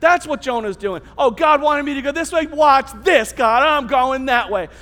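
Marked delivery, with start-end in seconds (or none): 1.2-4.7 brash, loud-edged mock rebel; cocky defiance. Preacher voices runaway Jonah to the congregation, defiant. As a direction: play Jonah brushing God off.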